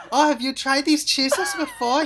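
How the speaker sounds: playful fake Swedish accent; attempted Swedish accent. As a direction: stall in makeshift Swedish-accented English. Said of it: "speaking English in a Swedish".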